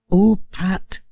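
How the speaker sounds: a chatty village shopkeeper; Missus Goggins. A narrator's reading. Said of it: "said Missus Goggins".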